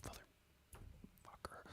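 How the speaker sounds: slow breathless whispered curse; stunned whisper. Real, not acted. Player after King is shot, slow whispered curse.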